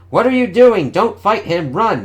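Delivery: high, loud panicked warning; freaking out. Acted. Felicia panics and yells at Spidey to run. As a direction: scream at him to run. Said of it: "Never seen Felicia freak out like this".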